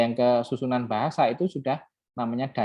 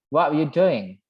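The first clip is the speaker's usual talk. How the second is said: imitated Midlands English accent; Brummie accent; 2 semitones higher, 4 dB louder than usual. Shown as a demonstration. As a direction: try a Brummie-style slurred question. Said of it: "ada ini di Midland, Broomy". (logat Midlands Inggris tiruan)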